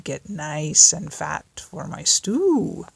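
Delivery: slow, savouring wolf voice; gloating wolf. Acted. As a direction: linger on stew. Wolf's gloating line.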